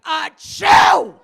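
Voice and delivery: hammed-up shouted sneeze, high and explosive; huge, theatrical fake sneeze; really loud. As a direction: blast ACHOO out as a spoken mock sneeze. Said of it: "And it's really loud".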